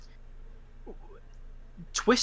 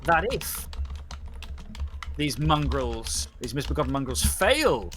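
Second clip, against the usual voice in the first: solemn judge's verdict. Acted. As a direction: pronounce judgement on the pack. Judge threatens outlaw status.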